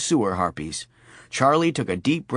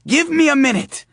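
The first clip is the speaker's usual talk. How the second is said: put-on old lady voice; 6 dB louder than usual.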